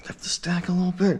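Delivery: breathy whisper to self. Real, not acted. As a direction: whisper it under strain. Whispered to self mid-workout.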